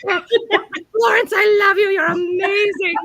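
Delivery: high, loud gushing declaration; hammed-up adoring fan cry. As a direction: gush like a starstruck fan. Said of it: "I'm like".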